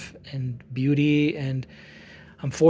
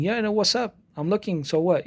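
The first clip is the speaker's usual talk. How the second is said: higher-pitched mock confrontation; retold worked-up challenge; 4 semitones higher than usual. Imitating a man lifting his arms to fight, worked-up challenge. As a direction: mimic someone getting heated and cocky. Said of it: "to get excited".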